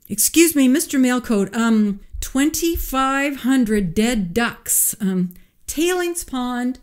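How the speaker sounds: high, timid voice through a door; nervous employee calling through the door; muffled voice. A narrator's reading. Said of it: "A muffled voice from behind the big oak door".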